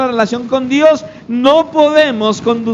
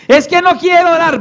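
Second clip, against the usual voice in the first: high-pitched protesting excuse; mock reluctance; 7 semitones higher than usual. Believer resisting prayer, mock reluctant protest. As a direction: play a reluctant believer, lightly exaggerated.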